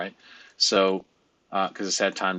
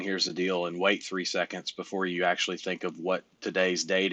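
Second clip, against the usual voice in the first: a slightly softer, absent-minded "Here's the deal"; lightly mimicking Joe Biden; 3 dB quieter than usual. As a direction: say "Here's the deal" then trail off vaguely. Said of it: "I don't mean Joe Biden".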